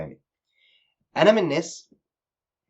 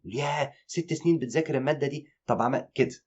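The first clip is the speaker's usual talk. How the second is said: mock amazement; 5 semitones higher than usual. Friend mocking a classmate's boast with fake awe. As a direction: play along as if truly impressed, tongue in cheek. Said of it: "باستخدام الساركازم".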